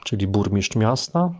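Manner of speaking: normal talking voice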